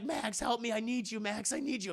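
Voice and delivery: pleading. Retold or imitated. Harry begs Electro for help.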